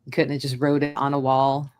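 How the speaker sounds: low, deadpan self-mockery; wry, put-upon complaint; sarcastic. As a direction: grumble drily at your own bad luck. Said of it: "sarcastic to my own self".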